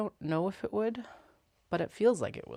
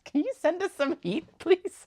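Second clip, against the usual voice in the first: high, loud pleading call; calling upstairs; 13 semitones higher, 8 dB louder than usual. Real, not acted. Cold in the basement, calling up to Wendy for heat. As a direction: call up the stairs begging for heat.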